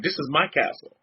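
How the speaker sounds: father asserting his house rule, low; a hint of a stern father; imitating stern father. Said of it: "He's like".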